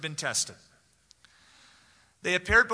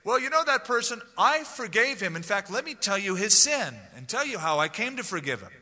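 smug boastful forgiver; 5 semitones higher, 3 dB louder than usual. Pretend. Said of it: "You don't go out of your way to say".

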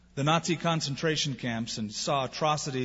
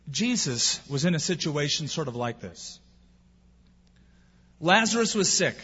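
normal talking voice

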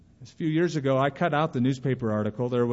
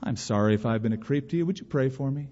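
soft answer; faster than usual. Acted. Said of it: "A soft answer turns away wrath".

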